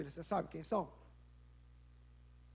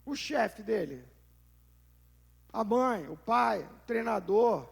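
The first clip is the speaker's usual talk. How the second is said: usual speaking voice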